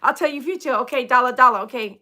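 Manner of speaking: light mock Asian accent; fortune-teller patter in imitated Asian accent. Mimicking a TikTok lady telling the future, imitated Asian accent. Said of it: "I get to talk like that".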